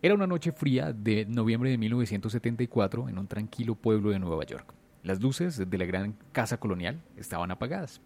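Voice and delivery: dramatic storyteller with measured pauses; suspense story narration. A narrator's reading. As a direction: tell it like a true horror tale, punching the openings of phrases. Tells a horror story.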